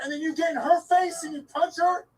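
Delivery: real tearful yelling; crying angry shout. Real, not acted. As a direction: shout the accusation while choking up. Confronting attacker, near tears.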